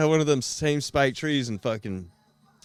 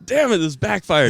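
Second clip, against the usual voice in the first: laughing; 7 semitones higher, 9 dB louder than usual. Real, not acted. Laughing at backfired joke.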